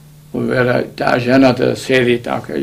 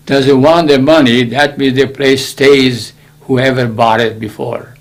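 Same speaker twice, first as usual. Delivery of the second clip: firm ruling; 5 dB louder than usual. Retold or imitated. Judge settling the dispute.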